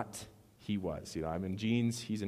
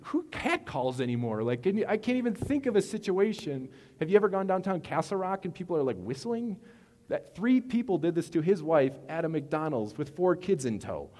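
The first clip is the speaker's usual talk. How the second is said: indignant; 8 semitones higher, 5 dB louder than usual. Real, not acted. Indignant about wife being catcalled.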